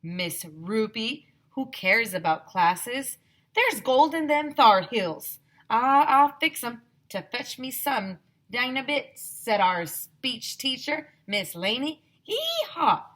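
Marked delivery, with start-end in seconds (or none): 0.0-9.2 slow, loud country drawl; Wild West drawl. A narrator's reading. Speech teacher waving off classes for the gold. 12.2-13.0 high whooping holler; shouted. A narrator's reading. Teacher whooping over the gold. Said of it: "shouted Mister Granite".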